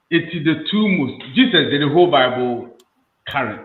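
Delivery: loud insistent claim; emphatic. Real, not acted. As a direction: push the point over the others. Heated argument about Bible.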